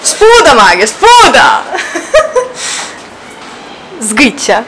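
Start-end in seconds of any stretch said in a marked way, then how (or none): 0.0-1.6 laughing shout. Real, not acted. Laughing while calling out.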